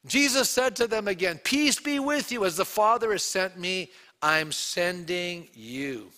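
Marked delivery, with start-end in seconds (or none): 1.4-6.1 solemn commission. Retold or imitated. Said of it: "a communication of the peace".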